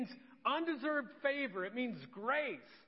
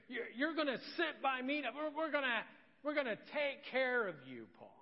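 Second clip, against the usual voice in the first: mock generous boss; 2 semitones higher than usual. God rewarding Paul as an employer.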